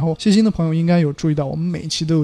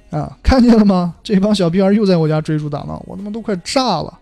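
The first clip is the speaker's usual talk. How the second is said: mock fed-up complaint; acted exasperation; 2 semitones higher, 3 dB louder than usual. Complaining about brats at home, mock exasperation. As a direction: grumble as if about to blow up. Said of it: "整得你都快炸了".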